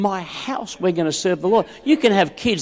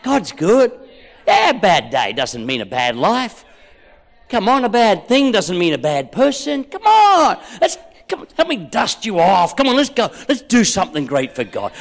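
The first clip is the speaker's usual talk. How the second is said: encouraging. Shown as a demonstration. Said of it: "I like that".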